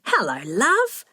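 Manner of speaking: slow, drawn-out hello, rising at the end; affectionate greeting. A narrator's reading. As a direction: stretch out a fond hello to your daughter. Mother embracing her daughter.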